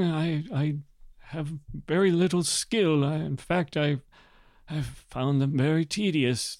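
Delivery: put-on hesitant, rambling old nobleman; weary elderly lord. Old lord telling the envoy about his wife, hesitant. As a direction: mumble like a tired old lord who hates politics.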